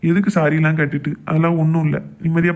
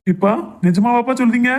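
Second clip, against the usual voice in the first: delighted disbelief; 6 semitones higher than usual. Acted. Son hears father will quit drinking.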